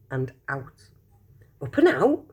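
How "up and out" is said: higher, puzzled echo of the label; puzzled question. Acted. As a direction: repeat the words in disbelief. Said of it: "thought Charlie".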